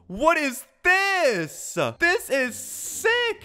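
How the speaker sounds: high, slow, amazed exclamation; wide-eyed wonder at a cool room; excited. Real, not acted. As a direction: gasp it out in delight. Reacting to a new room.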